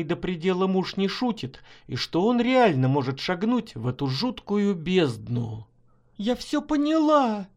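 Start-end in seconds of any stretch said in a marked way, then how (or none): 6.2-7.5 high, urgent cry; desperate exclamation. A narrator's reading. Wife exclaims to husband on the ledge, high and urgent. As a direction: blurt it out to stop him. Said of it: "воскликнула Марина".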